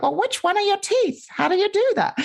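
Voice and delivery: put-on high, sing-song questions to a child; high playful parent voice; playful curious parent. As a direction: gently play along with a toddler. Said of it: "And I'm like".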